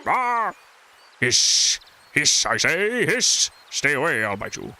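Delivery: scared snake hissing a threat, yelp then hisses. Pretend. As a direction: hiss out the words like a cornered snake.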